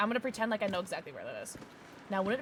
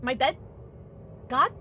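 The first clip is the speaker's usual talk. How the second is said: panicking gamer; 4 semitones higher, 6 dB louder than usual. Real, not acted. Suddenly healed, confused.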